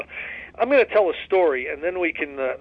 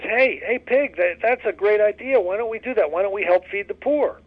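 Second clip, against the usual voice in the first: higher, eager little chicken voice; 6 semitones higher than usual. Retold or imitated. Chicken urging the pig to feed the poor, higher and eager. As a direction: pitch it up like a keen chicken pitching an idea. Chicken speaking in told joke.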